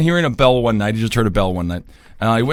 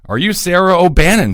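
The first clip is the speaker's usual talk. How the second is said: grave digger asking; 6 semitones higher, 4 dB louder than usual. Acted. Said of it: "Harold asked".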